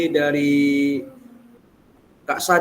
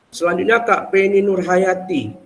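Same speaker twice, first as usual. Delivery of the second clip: memanggil lantang; 6 semitones higher, 4 dB louder than usual. Real, not acted. Host calls out next speaker.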